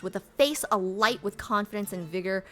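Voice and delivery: measured read-aloud voice; lightly performed game narration; story narration. A narrator's reading.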